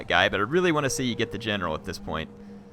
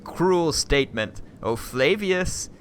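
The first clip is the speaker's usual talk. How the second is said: slow, higher robotic assassin-droid voice; a hint of a cold droid mocking the dead; HK-47 impression; 8 semitones higher, much slower than usual. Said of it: "my little H K accent there".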